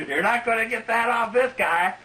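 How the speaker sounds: high squeaky angel voice; angel's voice. Retold or imitated. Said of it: "angel ... holding it back".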